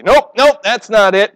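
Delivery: God brushing off our plans, breezy; brusque rejection. Retold or imitated. God dismissing your figured-out plan, in a breezy brush-off. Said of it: "God says".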